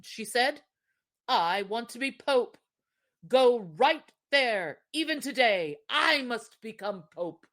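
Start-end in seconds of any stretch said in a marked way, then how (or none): 1.3-7.5 stubborn wife. Acted.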